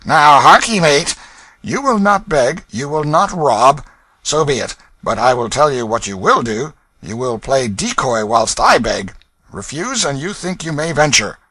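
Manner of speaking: threatening thief. Acted. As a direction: lay down the law. Hugo lays down terms.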